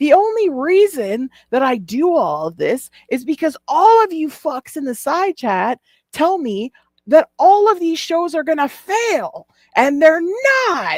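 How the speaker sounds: put-on very high, drunken screaming rant. Quoting what another man said, imitating him screaming. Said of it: "he's like screaming it".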